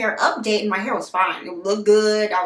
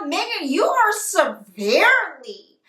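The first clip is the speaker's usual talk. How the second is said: concerned physician; 6 semitones higher than usual. Retold or imitated. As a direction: imitate a worried physician, slowing on the diagnosis. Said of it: "That's how she talks".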